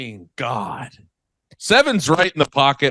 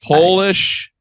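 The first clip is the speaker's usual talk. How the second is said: higher-pitched, failed stab at a Polish accent; attempted Polish accent; 7 semitones higher than usual. Shown as a demonstration. Co-host having a shot at the accent, attempted Polish accent. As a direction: have a shaky go at Polish-accented English. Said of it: "I can't do it".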